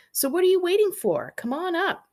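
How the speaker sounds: high and loud, eager welcome; excited invitation. Acted. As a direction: call them up with excitement. Inviting reader into treehouse.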